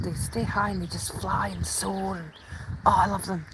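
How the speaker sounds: awed whisper. Real, not acted. Describing the birds soaring, whispering in awe. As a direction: hush it as if not to scare them.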